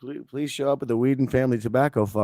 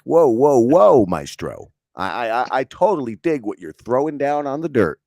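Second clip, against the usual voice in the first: imitating the AI; 5 dB louder than usual. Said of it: "It was like".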